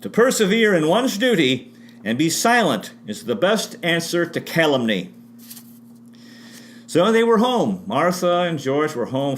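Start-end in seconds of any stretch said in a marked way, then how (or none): 0.0-5.1 formal quotation reading. Shown as a demonstration.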